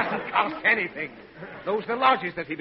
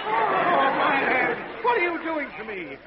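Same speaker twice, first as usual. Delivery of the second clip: high, agonized complaint; pained wail; 7 semitones higher, slower than usual. Acted. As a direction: moan as if the head is bursting. Father's head hurts after yell.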